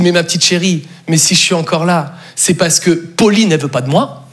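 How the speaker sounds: calm her down in a low voice; reassuring. Acted. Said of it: "je la rassure tout de suite".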